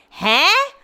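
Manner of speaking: high, rising baffled "huh"; baffled reaction. Retold or imitated. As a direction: retell a reply of sharp disbelief. Acting out baffled reply to friend.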